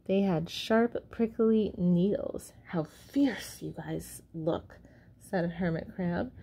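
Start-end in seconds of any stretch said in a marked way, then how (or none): 2.7-4.8 hushed awed whisper. Acted. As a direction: breathe it out in awe. Hermit Crab awed by urchins.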